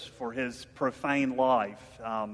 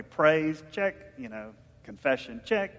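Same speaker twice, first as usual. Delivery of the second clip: mock checklist. Shown as a demonstration. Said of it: "It's like, okay".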